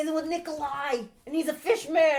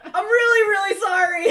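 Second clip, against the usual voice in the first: tearful apology; 4 semitones higher, 5 dB louder than usual. Acted. Apologizing in character, crying.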